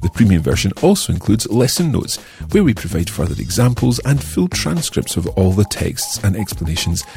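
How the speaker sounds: upbeat promo announcer read. Acted. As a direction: sell the premium course brightly. Premium course advert read.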